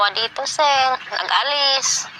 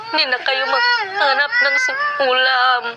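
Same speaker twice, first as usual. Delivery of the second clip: tearful thanks; 4 semitones higher than usual. Real, not acted. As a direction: voice breaking with tears while speaking. Grandmother weeps thanking donor. (umiiyak habang nagsasalita)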